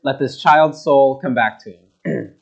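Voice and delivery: loud slow prayer to the Lord; crying out to God. Acted. Prophet crying out to God over the child, slow and loud. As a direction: cry it out, begging for the child. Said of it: "cried out to the Lord".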